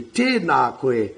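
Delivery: "tēnā koe" slow and low. Shown as a demonstration. Teacher demonstrating a changed intonation, slow. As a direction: draw "tēnā koe" out gently. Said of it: "you can change "tēnā koe" into".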